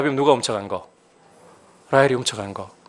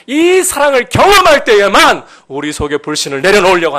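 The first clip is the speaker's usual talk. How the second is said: very high, loud sermon climax; impassioned, shouted preaching; full-force preaching; 6 semitones higher, 8 dB louder than usual. Real, not acted. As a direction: cry it out with fervent conviction.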